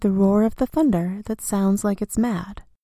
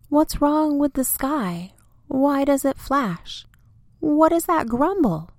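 higher, louder, frightened questions; alarmed little tree; 6 semitones higher, 3 dB louder than usual. Acted. Little tree asking big tree about the storm, frightened. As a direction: ask it wide-eyed and scared. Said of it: "the little one asked".

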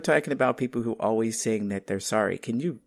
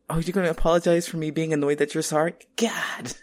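exasperated disbelief; 5 semitones higher than usual. Retold or imitated. Exasperated mock retort.

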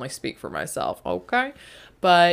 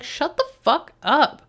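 higher, fast irritated outburst; snapping at inner critic; 6 semitones higher than usual. Retold or imitated. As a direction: snap at the nagging voice to stop. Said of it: "And I'm like".

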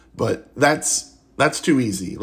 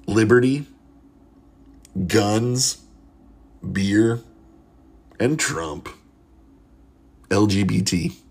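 each word alone, long pauses between; dramatic reveal; slower than usual. Acted. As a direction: deliver the acronym slowly like a big reveal.

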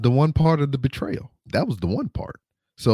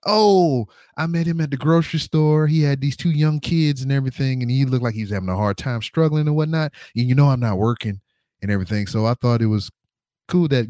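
mock wife voice; 2 semitones higher than usual. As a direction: play the wife spinning her rehearsed lie. Wife's voice in retold scene.

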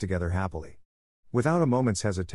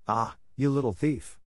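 higher angry accusation; angry farmer; 4 semitones higher than usual. A narrator's reading. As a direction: snap at the little thief. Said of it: "said the farmer in an angry voice".

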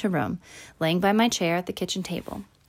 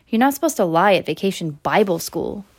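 Bible hit a bit louder and meaner; mean stress on Bible; 4 dB louder than usual. A narrator's reading. Girl needling Charlie at lunch, mild stress on Bible. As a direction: lean on Bible with a mild sneer. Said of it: "She said the word Bible real loud and mean-sounding".

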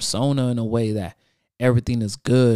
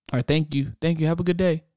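tired bored cashier; 5 semitones higher, faster than usual. Retold or imitated. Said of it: "cashier talks".

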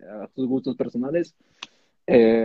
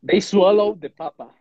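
fresa voice; 6 semitones higher, 8 dB louder, slower than usual. Retold or imitated. Mocking fresa throat voice.

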